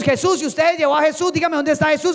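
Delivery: high-pitched, urgent pleading demand; insistent Mary. Acted. Mary demands Jesus from Jesus himself, insistent. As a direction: press on without letting him answer. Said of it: "yo me imagino al Señor mirando a María".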